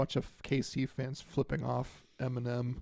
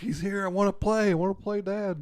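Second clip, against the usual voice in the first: higher, eager pet voice; excited dog talking to dad; dog's voice; 6 semitones higher, 7 dB louder than usual. Pretend. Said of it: "She's like".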